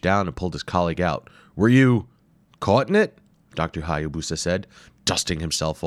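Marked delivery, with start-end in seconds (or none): 1.5-3.2 higher, louder anxious question; worried professor. Acted. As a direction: check on him, alarmed. Wimple worried.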